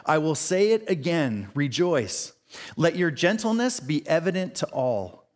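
slow, solemn Bible reading; measured reverent scripture read. Acted. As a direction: read the verses with weight. Reads scripture passage aloud.

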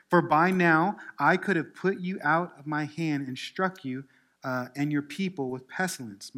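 loud, forceful pulpit reading; scripture reading. Acted. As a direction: proclaim God's command, leaning hard on key phrases. Reads scripture to congregation.

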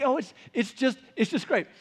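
husband playfully voicing his wife; imitating his wife. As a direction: gush lightly like his wife. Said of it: "my voice for her".

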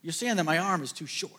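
mock the question like a bemused father; voicing God. God teasing Moses about his short arm. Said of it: "the Lord's just talking about".

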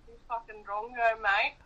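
broad Australian. Shown as a demonstration. Performing Australian on request for the guests, broad Australian accent. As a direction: put on broad Aussie slang swearing. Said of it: "hear you speak in Australian".

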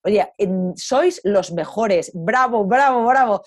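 loud, cheering "bravo"; woman cheering on the rangers fining her; mock praise. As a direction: applaud them gleefully. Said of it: "dándoles la enhorabuena".

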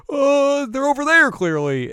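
high, loud nervous dodge; high nervous kid. Retold or imitated. Voicing nervous Shippo.

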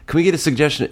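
improv host. Retold or imitated. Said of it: "when you ask an audience".

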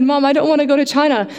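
put-on little girl pleading with her mom; scared little girl. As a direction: play the frightened seven-year-old, lightly. Child self voiced to mom.

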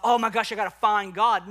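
a quick burst of mock panic. Preacher imitating someone searching for God, mildly panicked. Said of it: "frantic pant-, panic mode of".

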